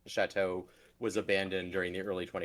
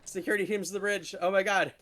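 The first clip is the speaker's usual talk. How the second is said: starship announcer; 9 semitones higher, 4 dB louder than usual. Pretend. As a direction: announce it over the ship intercom. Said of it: "that's my raid intro".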